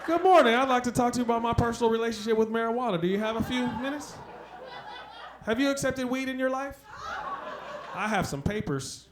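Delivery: a hint of a Jehovah's Witness selling weed; door-to-door preacher. Comic at the door, pitching weed to neighbors like a missionary. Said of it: "like a weed Jehovah's Witness".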